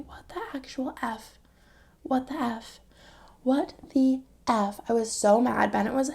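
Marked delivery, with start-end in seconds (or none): 0.1-4.8 muttered disbelief. Retold or imitated. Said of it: "But I was just like".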